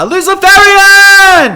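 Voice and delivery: high, long-drawn full-lung shout; shouting Luciferian. Shown as a demonstration. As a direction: holler it at the top of your lungs. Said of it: "shout it at the top of your lungs".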